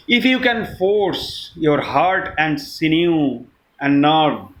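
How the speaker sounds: measured, solemn verse with pauses; poem recitation. Acted. Reciting Kipling's If to friends, measured poem recitation. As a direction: recite line by line, letting each phrase fall.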